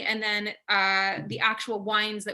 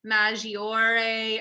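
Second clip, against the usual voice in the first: a slightly slowed, careful stab at the Italian name in an Italian accent; self-conscious Italian accent on a wine name; Italian pronunciation attempt; much slower than usual. Real, not acted. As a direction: try the Italian accent, knowing it's shaky. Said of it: "I apologize in advance for my poor Italian accent".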